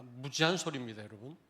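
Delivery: ordinary talk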